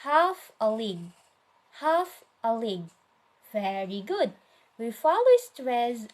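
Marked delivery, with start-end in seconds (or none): 0.0-2.9 HALF stressed, "a league" lighter after it; trochaic-style emphasis on the first word, HALF. Shown as a demonstration. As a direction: lean on HALF, let "a league" fall away. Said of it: "So the stress is on the".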